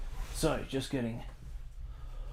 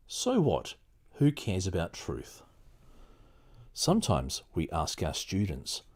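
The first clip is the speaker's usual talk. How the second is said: steady read-aloud voice, a touch more even than the chat; lightly performed book reading. Acted. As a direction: read the passage to the listeners, measured. Reads the book aloud on stream.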